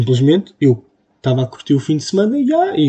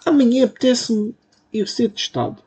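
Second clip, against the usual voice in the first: mock eager quote; 7 semitones higher than usual. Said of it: "não é uma coisa que eu diria".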